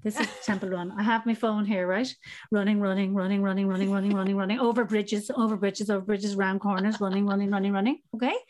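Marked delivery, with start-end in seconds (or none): 2.5-8.0 game demo. Shown as a demonstration. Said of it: "I'm gonna do it for you now".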